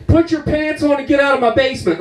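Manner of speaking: put-on high scolding old woman; a babushka ordering him out; angry grandma voice.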